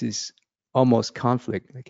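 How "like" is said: ordinary delivery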